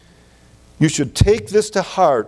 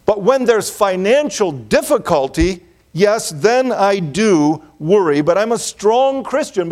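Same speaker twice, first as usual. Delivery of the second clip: higher, mock self-assured churchgoer; mock self-assured believer; 5 semitones higher than usual. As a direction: play the believer who excuses his worry, pitched high. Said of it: "Or you might say".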